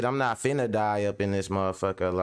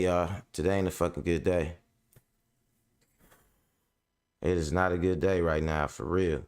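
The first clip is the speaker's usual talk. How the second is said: calming down; 5 semitones lower than usual. Real, not acted. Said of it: "I'm, I'm woosah".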